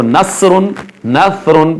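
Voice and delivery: नसरुन with a thin s in place of heavy saad; wrong pronunciation. Shown as a demonstration. Tajweed teacher showing students the error, wrong pronunciation. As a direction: demonstrate the mistaken light-s नसरुन. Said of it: "पढ़ेंगे तो गलत हो जाएगा".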